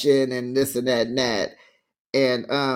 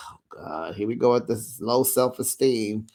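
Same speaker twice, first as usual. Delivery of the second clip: exasperated mutter; 5 semitones lower than usual. Real, not acted. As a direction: roll your eyes at it. Exasperated groan aside.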